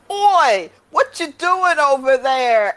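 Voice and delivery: drawn-out shout from across the way; heckling bystander voice. Retold or imitated. Soccer player interrupting Arthur at the stone, mock holler. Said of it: "you hear this voice like".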